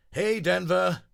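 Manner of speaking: loud, high greeting call; friendly call. Acted. Friends greeting Denver as he runs up, calling out. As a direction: hail a friend across the grass.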